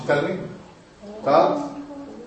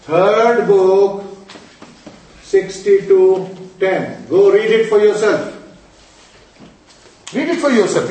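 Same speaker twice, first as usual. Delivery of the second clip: louder, driving each word home; forceful scolding; emphatic insistence; 5 dB louder than usual. Real, not acted. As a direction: insist they check the book themselves. Insisting on the source.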